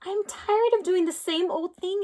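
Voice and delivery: whispered, grumbling complaint; a fed-up whispered grumble; grumbled. A narrator's reading. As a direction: grumble it under your breath. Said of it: "it grumbled".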